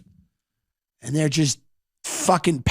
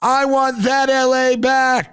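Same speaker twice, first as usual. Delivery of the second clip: Rick's speech; 5 semitones higher than usual. Retold or imitated. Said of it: "He goes".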